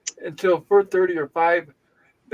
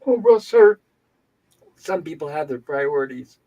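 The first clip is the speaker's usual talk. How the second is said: condescending nurse; 2 semitones lower than usual. Retold or imitated. Nurse dismissing a complaint about the waiting list, mock condescending. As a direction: mimic a nurse fobbing someone off. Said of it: "all condescending".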